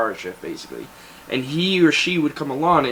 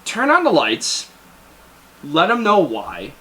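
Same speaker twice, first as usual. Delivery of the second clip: a hint of a barked order, jumping much higher at the end; mock drill sergeant giving orders; imitating drill sergeant; 8 semitones higher than usual. Drill sergeant to recruit, lightly mocked order. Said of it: "and he's just like".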